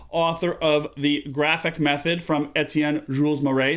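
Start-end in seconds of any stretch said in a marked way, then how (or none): 2.6-3.8 put-on names read with a clumsy French accent; a lightly attempted French accent on the names; terrible French accent. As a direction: try the French name, badly. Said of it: "That's my terrible French accent".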